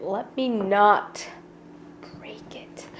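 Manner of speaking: careful whisper, trailing off. Real, not acted. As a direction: hush it out nervously.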